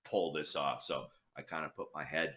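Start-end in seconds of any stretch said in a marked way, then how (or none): 0.0-0.8 muttering to himself. Retold or imitated. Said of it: "And I'm like".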